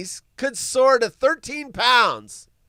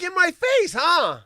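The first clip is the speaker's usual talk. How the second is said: higher, louder taunting imitation; mocking taunt; 11 semitones higher, 6 dB louder than usual. Imitating the AI lady gloating, a high mock taunt. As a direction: throw her jab back mockingly. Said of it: "She's like".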